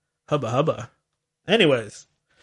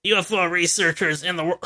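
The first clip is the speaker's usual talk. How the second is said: slow, scratchy mock radio-host voice; a hammed-up scratchy, slow paranormal-researcher drawl; mocking Linda Moulton Howe. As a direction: drag out each word like a spooky late-night UFO host. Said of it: "I don't know why I'm making fun of Linda Moulton Howe".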